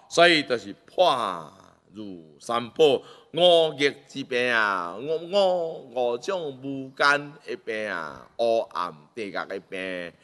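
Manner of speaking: slow, drawn-out solemn preaching. Real, not acted. Preacher warns followers of the dark hell, solemn and drawn-out. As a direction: preach it slowly, stretching key words.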